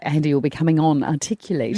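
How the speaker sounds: pompous. Pretend. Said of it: "start with this pompous".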